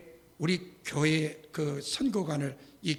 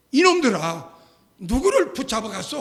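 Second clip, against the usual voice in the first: loud, higher furious rebuke; angry scolding; 4 semitones higher, 9 dB louder than usual. Retold or imitated. Security chief yelling at the police over the phone, angry shout.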